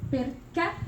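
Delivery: "perché" cut off on the last "-ché"; stress on final syllable. Shown as a demonstration. Teacher showing a truncated word, final-syllable stress. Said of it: "the sound is cut at the end".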